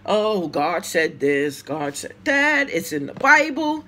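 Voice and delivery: slow, drawn-out mock piety; mocking preachy tone. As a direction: parody a self-righteous believer. Mocking a homophobe's excuses.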